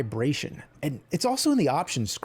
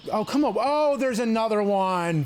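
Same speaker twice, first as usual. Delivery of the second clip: exasperated; 4 semitones higher than usual. Real, not acted. Player spotting another enemy, exasperated. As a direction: drag it out in despair. Exasperated while playing the game.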